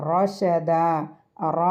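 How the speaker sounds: റഷദ recited with a heavy, dark "r"; weighty opening റ, held carefully. Shown as a demonstration. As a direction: say the റ of റഷദ thick and full. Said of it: "ഹെവിയാണ്".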